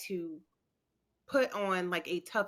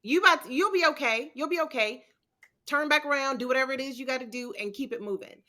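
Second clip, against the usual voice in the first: higher, brisk tough-love pep talk; 4 semitones higher, 3 dB louder, faster than usual. Retold or imitated. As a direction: snap her friend out of crying. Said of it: "and I'm like".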